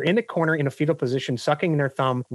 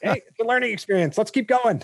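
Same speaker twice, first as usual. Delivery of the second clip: laughing mock cheer; 5 semitones higher than usual. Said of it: "I'm like".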